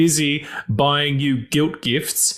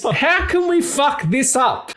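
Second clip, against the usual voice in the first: shouting; 12 semitones higher, slower than usual. Acted. Quote-like shout.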